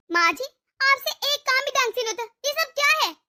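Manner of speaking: a scolding outburst at the mother-in-law, rising at the end; hammed-up angry daughter-in-law telling her off. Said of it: "इतना चीखना शुरू कर दिया तूने". (गुस्से में डाँटती बहू)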